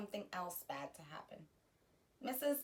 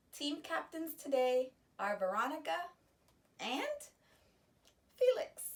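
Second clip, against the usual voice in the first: excited announcement; 6 semitones higher, 4 dB louder than usual. Acted. Teacher announcing the team captains, rising excitement. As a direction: pitch climbing to a high, loud Felix.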